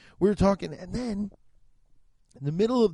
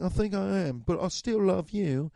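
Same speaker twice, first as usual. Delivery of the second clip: A singer. Retold or imitated. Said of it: "He doesn't talk that British".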